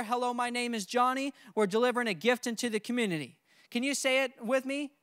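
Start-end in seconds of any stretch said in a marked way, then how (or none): 0.0-3.4 door-to-door greeting. Shown as a demonstration. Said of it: "You knock on the door".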